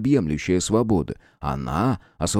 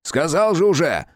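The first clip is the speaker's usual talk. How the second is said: loud, exasperated shout; irritated yell; 7 semitones higher, 3 dB louder than usual. Acted. Visitor yells back through the door, irritated and loud. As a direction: bark it back, fed up. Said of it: "раздражённо проорали из-за двери".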